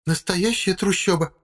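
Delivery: slow, high, indignant woman's voice. A narrator's reading. Wife complaining about the thicket, slow indignant high voice. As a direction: drag it out, offended by the woods. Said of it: "возмущённо говорит женщина".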